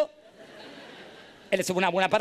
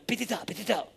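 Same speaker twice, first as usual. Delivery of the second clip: soft, slightly raised little voice; hushed calling; 3 semitones higher, 5 dB quieter than usual. Acted. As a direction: call softly to wake a sleeper. Gnomes call him while he sleeps.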